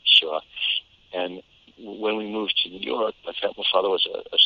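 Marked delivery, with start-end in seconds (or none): 0.0-0.4 lightly done Boston accent, dropped R's; little Kennedy. Shown as a demonstration. Actor mimics own childhood speech, Boston accent. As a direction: mimic a Boston kid's vowels. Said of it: "I said like a little Kennedy".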